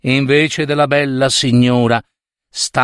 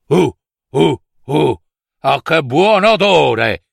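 witch sniffing. Acted. La strega fiuta la bambina.

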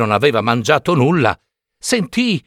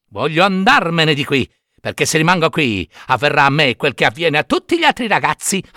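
cheeky puppet. Acted. Pinocchio voice.

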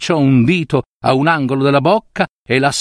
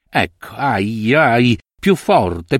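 slow pained groans through toothache; groaning in pain; much slower than usual. Acted. Bobbio alone with his toothache, groaning slowly in pain. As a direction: draw out each ai as the tooth throbs. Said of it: "con voce non sua".

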